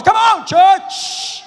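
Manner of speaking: very high, drawn-out loud yell; rally the church with a stretched, piercing shout; climactic preacher's shout. Real, not acted. Preacher rousing the church at his climax, full-out shout.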